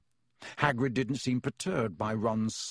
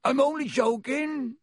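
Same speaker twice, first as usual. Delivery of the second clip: laughing giant, much higher and louder; 14 semitones higher, 5 dB louder than usual. A narrator's reading. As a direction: chuckle it out, teasing. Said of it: "Hagrid was laughing".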